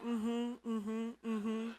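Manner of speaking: soft, restrained mm-hmm; quiet murmured agreement; calm mm-hmm. Retold or imitated. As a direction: hold back the excitement, softly. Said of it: "I have to be calm".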